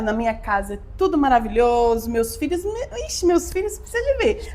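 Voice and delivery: put-on rosy bragging; mock gushing. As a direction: sing the praises of a fake perfect family. Mocking fake rose-coloured family life. (elogio exagerado, em tom de deboche)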